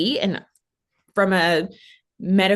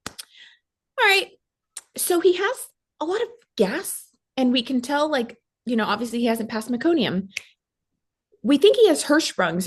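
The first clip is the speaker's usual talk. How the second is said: a much higher, put-on voice for the NICU doctor; imitating the doctor in a high voice; mimicked doctor; 5 semitones higher than usual. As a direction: act out the doctor briskly breaking the news. Retelling what the NICU doctor said.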